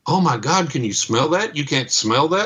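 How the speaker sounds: high, startled alarm; sudden shock at the smell. Retold or imitated. Gas man alarmed at the smell.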